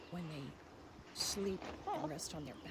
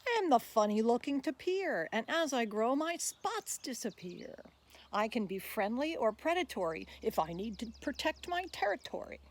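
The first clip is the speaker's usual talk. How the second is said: louder, bouncy rhyming voice of the tapir; tapir reciting; 4 semitones higher, 4 dB louder than usual. Acted. Tapir pleading with listeners to be saved, lively recital. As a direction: speak as the friendly tapir asking for help.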